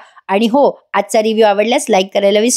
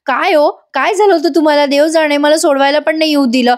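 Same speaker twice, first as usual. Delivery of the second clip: sulky complaint; 4 semitones higher than usual. Retold or imitated. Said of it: "हा पार्थ त्याच्या तोंडाचा फुगा करतो".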